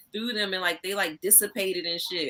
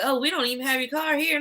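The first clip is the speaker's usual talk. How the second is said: imitating staff; 8 semitones higher than usual. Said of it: "And they're like".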